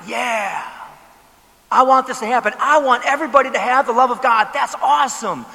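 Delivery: all in, fast and loud; eager yes. Retold or imitated. Preacher voicing an eager believer, excited. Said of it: "is your reaction like".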